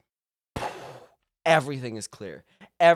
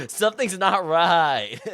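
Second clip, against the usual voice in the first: mock dramatic cry; 2 semitones higher, 7 dB louder, slower than usual. Louder drawn-out repeat after laughing.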